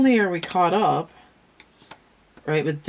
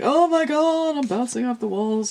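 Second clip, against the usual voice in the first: freaking out; 9 semitones higher than usual. Acted. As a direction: shriek like a kid bouncing off the walls. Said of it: "they're, like, freaking out".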